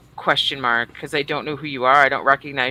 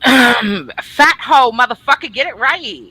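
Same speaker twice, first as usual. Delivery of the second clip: mock angry rebuke; 6 semitones higher, 6 dB louder, slower than usual. Correcting co-host's name joke.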